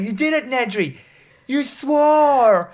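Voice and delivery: high, rising cheer of a proud mentor; hammed-up delighted friend; mock proud mentor. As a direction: cheer him on in a silly high voice. Retelling ghost mentor's delight.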